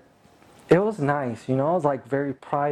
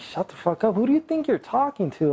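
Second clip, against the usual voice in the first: mock-indignant comeback, pitched high and quick; combative retort; 6 semitones higher, faster than usual. Man retelling his comeback to a combative dancer, mildly indignant. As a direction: fire back as if challenged, without shouting. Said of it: "I thought she's getting combative".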